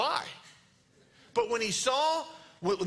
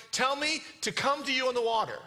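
higher, projected plea; mild yell; 5 semitones higher than usual. Acted. Impetuous Peter asking Jesus to call him, mildly yelled. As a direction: keep calling out, short of shouting. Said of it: "literally yells out in verse twenty-eight".

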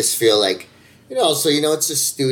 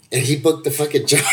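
breaking into laughter mid-sentence; laughing; 4 semitones higher, faster than usual. Real, not acted. Telling how his friend beat the Australians, laughing. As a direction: let a big laugh take over before the last word.

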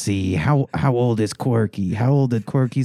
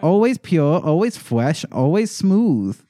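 put-on creepy kid voice; 5 semitones higher, slower than usual. Creepy chant-like list.

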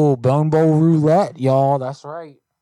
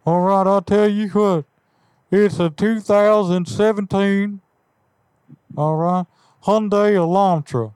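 folksy neighbourly caller, only slightly put on; Hank Hill voice; 2 semitones higher than usual. Prank caller greeting the car buyer, light Hank Hill voice. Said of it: "Yes, Hank Hill".

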